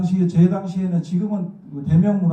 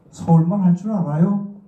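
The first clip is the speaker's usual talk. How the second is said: loud, higher question rising at the end; exaggerated challenge; 4 semitones higher, 5 dB louder than usual. Director friend's first words to the newcomer from Daegu, exaggerated challenge. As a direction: imitate a provoking question, overdone. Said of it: "약간 심하게 만들기 이 정도는 아니었어".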